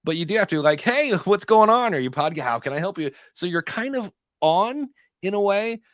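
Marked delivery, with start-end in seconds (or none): 0.8-3.1 high, loud, laughing salesman hello; upbeat booth greeting. Acted. Greeting visitors at the podcast booth, high-energy and eager. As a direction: switch fully on, high and peppy. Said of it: "not that you would be like Eeyore".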